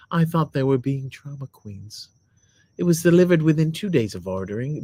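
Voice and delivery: lightly voiced lady reading a review; put-on lady voice. Husband reading his wife's review aloud, put-on lady voice. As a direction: read it as a lady, measured. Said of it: "you have to be a lady".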